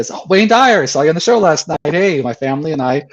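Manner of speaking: high, eager fan voice that settles toward plain. Retold or imitated. Stranger recognizing Wayne Dyer on the beach, eager and high. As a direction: greet him like a thrilled stranger. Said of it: "Someone walks up to him and says".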